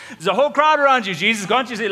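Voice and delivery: high and loud, chuckling at the absurd question; laughing disbelief. Acted. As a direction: laugh him off, there's a whole crowd. Disciples scoff at Jesus' question.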